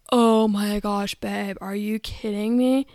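slow, hammed-up fake delight; husband's second take of a fake amazed reaction, slowed and hammy; mock staged gushing. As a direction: overplay the redo reaction slowly.

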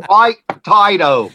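Baked potato drawn out slowly as paik tai-doh; slow Australian accent. Retold or imitated. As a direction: mimic an Aussie saying Baked potato slowly. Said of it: "you have to learn how to say baked potato".

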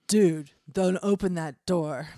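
lightly voiced devil, slow and loud. Devil warning his roommate off a door, lightly voiced devil. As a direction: give a warning with a hint of devil. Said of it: "I will make a devil voice".

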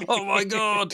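loud, high, laughing disbelief. Real, not acted. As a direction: burst out laughing in shock. Reacts to the joke, laughing.

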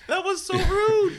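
high, slow, laughing disbelief; mock outrage. Real, not acted. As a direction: squeal it out, scandalised.

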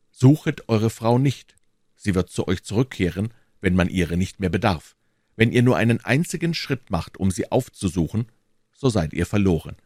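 a touch of menace, understated; reading a threat aloud. Acted. Threatening letter read aloud.

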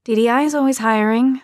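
hopeful, upbeat nudge to cheer him; encouraging. Acted. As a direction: lift the words to encourage your husband. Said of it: "in what I hoped was an encouraging voice".

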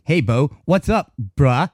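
"bruh" said stiffly, like an outsider trying it out; lightly mock the boss's forced slang; imitating the manager's awkward "bruh"; mock white manager greeting. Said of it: "he said it with such a white".

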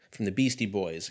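normal talking voice

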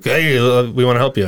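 retold hail from a passing boat; calling out. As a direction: hail them lightly, as in a joke. Boat crew hailing stranded man in story.

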